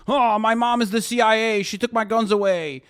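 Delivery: lightly voiced mockery; mock whiny chatter. Streamer mocking gun-larp chatters, whiny.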